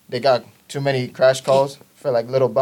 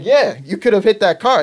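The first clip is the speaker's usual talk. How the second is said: higher, louder mock telling-off; retold scolding; 8 semitones higher, 5 dB louder than usual. Examiner to learner who pulled out, mock scolding. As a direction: imitate an insistent examiner.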